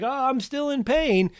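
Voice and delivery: high, slow mock whine of a client in pain; a therapist mimicking a client who says they still hurt; whiny client. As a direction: play the complaining patient, drawn out and high. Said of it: "they're like".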